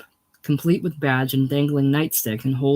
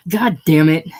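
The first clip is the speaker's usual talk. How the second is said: angry shout; 6 dB louder than usual. Acted. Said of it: "his shouting rose until he sounded on the verge of tears".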